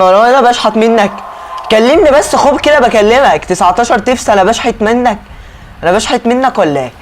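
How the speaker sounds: indignant protest. Acted. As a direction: demand to know if he's begging, offended. Passenger pays nineteen chips only.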